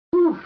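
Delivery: sharp, high puff of exasperation; exasperated whew. Retold or imitated. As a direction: blow off steam in one short whoosh. Exasperated after being told off.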